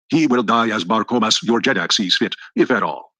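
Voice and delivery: slow, measured and dignified; emphasis and dignity. Acted. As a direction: lay down the law calmly as the young ruler. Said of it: "with emphasis and dignity".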